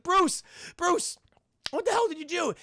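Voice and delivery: high-pitched, panicked mock yelling; screaming for Bruce. Streamer voicing Terry stuck and yelling to Bruce, screaming. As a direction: call out in hammed-up alarm. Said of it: "He's just screaming Bruce's name".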